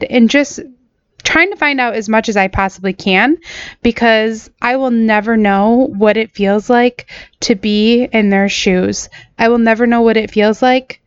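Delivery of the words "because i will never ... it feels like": real, holding back tears, slowing down; fighting to get the words out; choked up. Real, not acted. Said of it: "very hard for me to say that without getting choked up".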